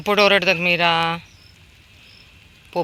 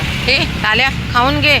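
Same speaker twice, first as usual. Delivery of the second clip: high, raised hail to a dog; calling out; 9 semitones higher, 5 dB louder than usual. Real, not acted. Feeder telling a dog to eat up, calling out. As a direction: call sharply to get it eating.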